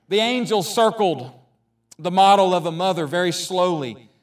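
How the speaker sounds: expressive read-aloud with voiced dialogue; story reading. Pastor reads a Mother's Day story to the congregation, expressively.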